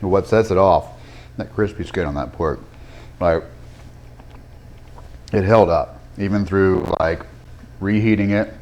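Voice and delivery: talking while chewing food; mouth full. Real, not acted. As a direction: speak around a mouthful of food. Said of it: "I'm gonna talk with my mouth full".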